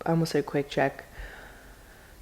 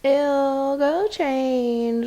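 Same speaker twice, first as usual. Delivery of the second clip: put-on higher, snooty mean girl; 7 semitones higher, slower than usual. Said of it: "those girls that are like".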